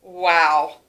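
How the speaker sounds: echoed wow. Acted. Echoing the class wow.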